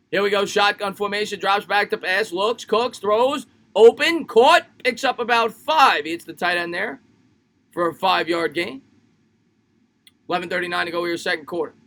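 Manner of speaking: quick phrases building to the catch, then easing off; football announcer's running call; live play-by-play. Acted. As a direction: call the pass as it happens. Calls the game live.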